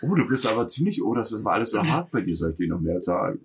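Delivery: soft, breathy sultry murmur; breathy flirting. Pretend. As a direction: coo it softly and suggestively. Playing flirty scene.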